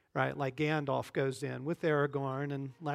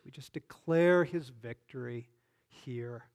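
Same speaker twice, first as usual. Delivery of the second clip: preaching prayer. Real, not acted. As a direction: lead the brothers in a forceful prayer. Leads the group in prayer.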